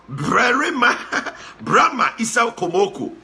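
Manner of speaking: real laugh breaking into the name. Real, not acted. Host relishing Brahma Isa Komoko's name, laughing. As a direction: draw out the name through a chuckle.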